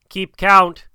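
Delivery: loud, high, scornful call; scornful shout. A narrator's reading. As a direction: shout it with contempt. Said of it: "shouted Mowgli scornfully".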